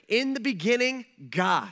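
opening words rung out with weight; proclaiming Genesis. Acted. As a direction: announce it like scripture.

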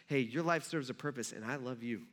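tender reassurance. Acted. God's message to Job after suffering, tenderly reassuring.

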